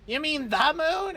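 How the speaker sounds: high rising disbelief; incredulous. Acted. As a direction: question it like an astonished wizard. Sorcerer incredulous.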